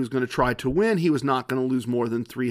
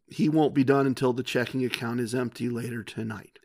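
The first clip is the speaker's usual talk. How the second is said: lower, softer confiding aside; 5 semitones lower, 5 dB quieter than usual. Retold or imitated. Wife confiding about her gambling husband, low and resigned. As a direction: imitate a resigned wife, voice dropped. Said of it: "says in a low voice".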